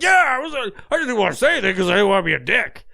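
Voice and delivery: high, quick sheepish admission; sheepish friends. Retold or imitated. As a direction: blurt it out guiltily, fast. Everyone's guilty admission.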